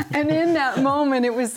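words through laughter; laughing. Real, not acted. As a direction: speak while still laughing. Still laughing from the answer.

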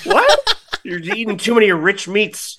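high, loud words through laughter; laughing disbelief. Real, not acted. Host teasing co-host about gout, laughing incredulously. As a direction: crack up while teasing. Cracking up over gout joke.

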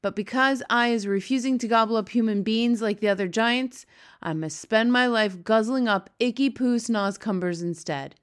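a disgusted giant grumbling on. Acted. BFG ranting about snozcumbers.

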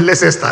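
LEICESTER said "leh-sess-tah"; comic spelling pronunciation of LEICESTER; mispronounced as spelt. Shown as a demonstration. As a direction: say "Leicester" naively, syllable by syllable. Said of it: "You don't want to confess now".

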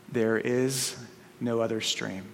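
solemn lion. Acted. Lion's solemn reply.

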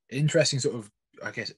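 coughing mid-sentence; words catching in the throat from food; choking on pancakes. Real, not acted. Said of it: "choking on pancakes".

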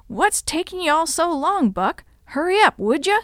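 hustle him along impatiently; impatient hurrying. A narrator's reading. Bootlegger impatiently hurrying his companion.

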